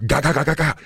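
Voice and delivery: rapid mouth gunfire "ga ga ga", pitched high; machine gun noise. Retold or imitated. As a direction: rattle it off like a PKM firing. Imitating machine gun fire.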